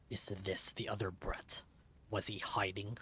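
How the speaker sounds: low, soft stranger's whisper. Acted. Stranger whispering to partner about the child, low.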